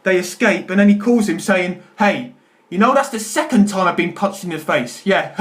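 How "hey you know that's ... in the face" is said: laughing through quote. Retold or imitated. Quoting police officer on phone.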